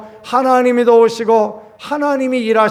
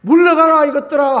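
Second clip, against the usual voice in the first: God's thunderous command; 7 semitones higher than usual. Retold or imitated. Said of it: "쾅 치고 막".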